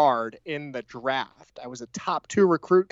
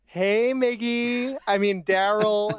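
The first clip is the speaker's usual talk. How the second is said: flirty; 5 semitones higher, slower than usual. Pretend. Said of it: "I'm just fluttering my eyelashes at you".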